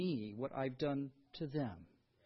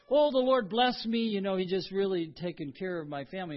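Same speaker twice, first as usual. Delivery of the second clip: mock gushing; 4 dB louder than usual. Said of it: "we hear people say".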